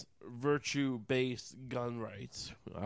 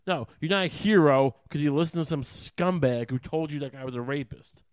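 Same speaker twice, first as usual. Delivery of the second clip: much louder, hammering each phrase; furious rant; 7 dB louder than usual. Real, not acted. Berating veterans' families over hero worship, furious and loud. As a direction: let the anger boil over.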